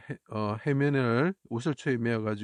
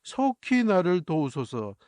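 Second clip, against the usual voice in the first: louder, higher, slow desperate plea; crying out to God; 4 semitones higher, 4 dB louder than usual. Acted. Jesus on the cross pleading to God, loud slow cry. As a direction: beg for help as if dying. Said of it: "라고 이렇게 부르짖는 거죠".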